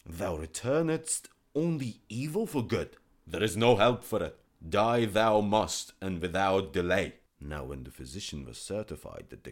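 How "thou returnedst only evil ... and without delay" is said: loud, final death sentence; stern king. Acted. King sentencing the physician to death, loud. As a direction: pronounce doom without pity.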